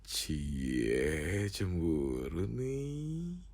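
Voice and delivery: drawn-out, singsong tease; playful "ooh, someone's jealous" lilt; teasing. Acted. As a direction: softly needle them, stretching the words. Teasing partner about jealousy.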